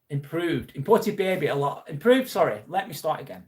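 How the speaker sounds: reading while out of breath; out of breath, stumbling over words. Real, not acted. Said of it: "Catching my breath".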